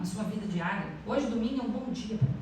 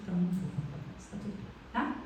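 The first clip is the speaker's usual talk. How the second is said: fast, softer self-reassurance; quick soft reply; 2 semitones lower, 6 dB quieter, faster than usual. Retold or imitated. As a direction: brush it off quickly and quietly. Responde a si mesma. (resposta rápida e mais baixa)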